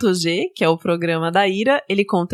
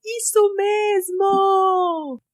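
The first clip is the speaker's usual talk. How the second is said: sensual voice; 13 semitones higher, much slower than usual. Acted. Continues sensual promo bit.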